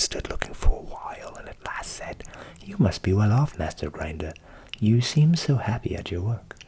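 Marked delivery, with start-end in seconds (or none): 2.6-6.6 low voiced admiring Hans.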